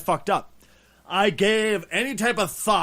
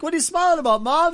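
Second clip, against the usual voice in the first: put-on child voice; 10 semitones higher, 4 dB louder than usual.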